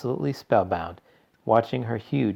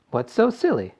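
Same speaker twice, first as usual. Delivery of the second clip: put-on bratty girl voice; 12 semitones higher, 4 dB louder than usual. A narrator's reading. Violet talking back.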